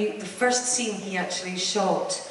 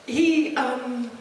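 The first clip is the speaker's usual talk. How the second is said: filling up; 4 semitones higher, 4 dB quieter than usual. Real, not acted. Remembering the late John Hurt, voice catching with tears. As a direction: voice catching with real emotion. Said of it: "I'm filling up with this".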